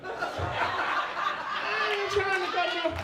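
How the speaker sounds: slow words broken by laughter; high, slow laughing line. Real, not acted. Laughing through his own line.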